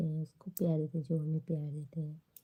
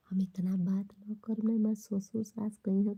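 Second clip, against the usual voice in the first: whispered aside; 3 semitones higher than usual. Real, not acted.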